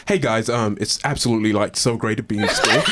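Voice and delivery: put-on upbeat American accent, gushing; eager American accent at a new London school. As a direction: lay the American accent on thick. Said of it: "a full-on American accent".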